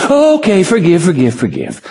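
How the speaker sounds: sarcastic mock. Mocking God's request.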